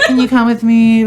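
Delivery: high, laughing mock plea; imitating sister. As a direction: voice her asking sweetly, laughing. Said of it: "So she's like".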